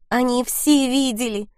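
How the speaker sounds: a touch of sobbing on the words. A narrator's reading. Tate tells Maddock everyone saw, mildly sobbing. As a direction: say it through a hint of a sob. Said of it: "всхлипнула я".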